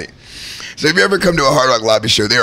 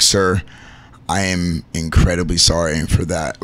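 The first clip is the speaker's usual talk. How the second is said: retold sincere apology; 6 semitones lower than usual. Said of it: "I'm like".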